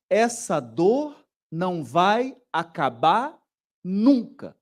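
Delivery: slow, understated hopeless voice; mild voicing of despair. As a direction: speak slowly like someone without hope. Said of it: "a lógica interpretativa do deprimido é assim". (fala lenta e desesperançada de um deprimido)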